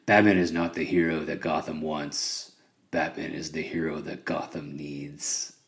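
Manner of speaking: low gravelly growl fading to a whisper; deep gravelly Batman voice. Retold or imitated. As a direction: growl it like a brooding vigilante. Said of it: "deep, gravelly voice".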